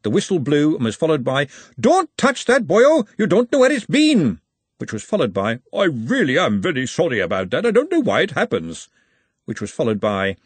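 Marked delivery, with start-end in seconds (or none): 1.8-4.4 high, loud telling-off; scolding shout. A narrator's reading. Someone warns a boy off something on the pitch, scolding shout. Cry heard after the whistle. 5.7-8.9 apologetic. A narrator's reading. Embarrassed apology after the shout.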